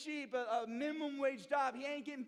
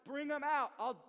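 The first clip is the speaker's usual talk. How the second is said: taunting; 2 semitones higher, 3 dB louder than usual. Retold or imitated. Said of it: "He's taunting them".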